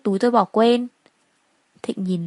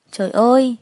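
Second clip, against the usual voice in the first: shocked gasp; 3 semitones higher, 5 dB louder than usual. Acted. Coworker sees Thu's injuries.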